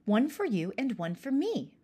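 put-on a kid thrilled with a present; exclaiming. Pirka to his siblings about the knives, mildly excited. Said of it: "exclaimed Pirka".

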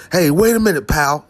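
mock-friendly talking down; condescending. Comic showing how to call someone your friend instead of punching, condescending. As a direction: call them pal with mild condescension. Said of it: "in a condescending way".

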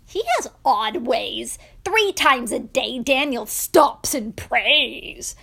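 punchy accusing report; scheming spy. Acted. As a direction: tell on him like an informing spy.

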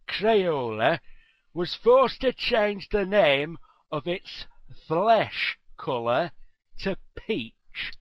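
slightly eerie, put-on story voice; creepy storyteller. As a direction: read it like a creepy tale. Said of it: "It's a creepy way to".

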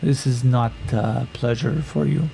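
slow, formal warrior woman, guarded; carefully feeling him out; wary warrior woman. Acted. Warrior woman cautiously asks Yakim if he wants to be here.

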